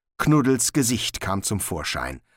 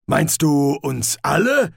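higher, louder, uneasy asking; nervous question; 5 semitones higher, 5 dB louder than usual. A narrator's reading. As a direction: ask with a touch of nerves. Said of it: "fragte er nervös". (leicht nervöse Frage)

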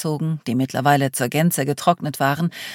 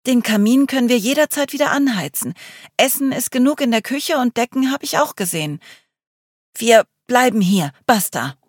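higher, louder, bossy orders; commanding; 8 semitones higher, 4 dB louder than usual. Acted. Charlie taking charge of the group, commanding order. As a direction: lay down the law, no arguments. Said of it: "als würde sie uns einen Befehl erteilen".

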